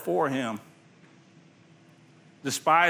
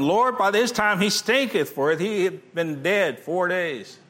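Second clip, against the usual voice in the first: a touch of incredulous protest, then slower; Martha protesting; 4 semitones higher than usual. Acted. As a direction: protest the stench of the tomb. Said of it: "said unto him".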